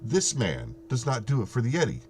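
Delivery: lightly put-on Canadian accent. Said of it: "'Cause I'm saying it in the Canadian accent out loud".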